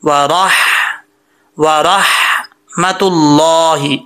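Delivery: slow, drawn-out वरहमतुल्लाहि with a full ra; careful recitation. Shown as a demonstration. Teacher modelling the thick ra for students, careful recitation. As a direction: stretch वरहमतुल्लाहि syllable by syllable, full-mouthed ra. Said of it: "मोटा पढ़ा जाएगा".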